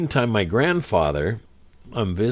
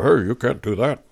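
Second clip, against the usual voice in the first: louder mock-stern telling-off; raised voice, mildly indignant; retold manager's objection; 3 semitones higher, 5 dB louder than usual. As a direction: lightly act out a manager objecting.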